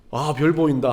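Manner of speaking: low, understated feigned calm; feigned nonchalance. Retold or imitated. Dad brushing off his toddler's punch, feigned nonchalance. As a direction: play it cool, softly downplayed. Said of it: "그냥 태연한 척".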